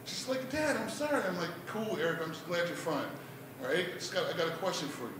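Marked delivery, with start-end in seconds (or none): 0.5-1.2 soft, high daughter voice; apologetic daughter. Retold or imitated. Daughter apologizing to worried dad, meekly. 1.7-5.1 soft, understated reassurance; calmed-down dad. Acted. Dad forgiving daughter before a question, softly.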